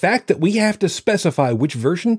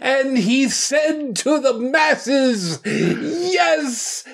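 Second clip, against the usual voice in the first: booming biblical narration; 9 semitones higher, slower than usual. Pretend. Mock biblical proclamation about Dallin.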